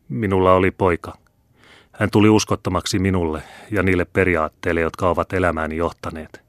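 a hint of a proud old father refusing his son; stern old father. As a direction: hold back the struggle, stern and firm. Old man declares disinheritance.

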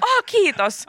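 high mock-delighted thanks; teeskennelty kiitoshuuto. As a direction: gush thanks for an imaginary audience. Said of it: "pakko huutaa". (esitetty kimeä kiitos)

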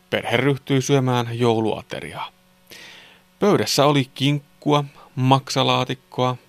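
put-on clear, measured children's story reading; story narration. A narrator's reading. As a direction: narrate a Christmas tale sentence by sentence. Reads a Christmas story. (selkeä joulusadun kerronta)

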